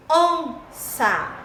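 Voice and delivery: "onça" split, strong on ON; "onça" with high ON, then falling SA; stressed syllable. Shown as a demonstration. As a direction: stretch the first syllable of "onça". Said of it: "tem mais intensidade".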